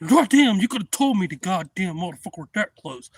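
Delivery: loud, high shout easing slightly; retold alarmed outburst. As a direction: act out shocked protest at the danger. Man finally sees the alligator.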